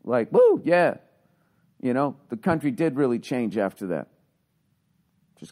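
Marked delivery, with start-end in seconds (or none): 0.3-1.0 higher, louder cheer of agreement; mock a fan cheering in agreement; agreeing whoop. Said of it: "an American agreeing".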